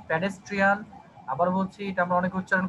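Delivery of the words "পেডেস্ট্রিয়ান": pedestrian said with an "e" sound, pe-des; common mispronunciation of pedestrian. Shown as a demonstration. Teacher showing students how many mispronounce pedestrian. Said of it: "আমরা অনেকেই উচ্চারণ করি".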